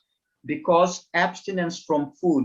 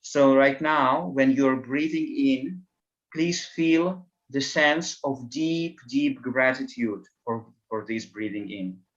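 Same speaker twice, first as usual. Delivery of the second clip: guided meditation. Acted. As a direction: guide them gently through the breath.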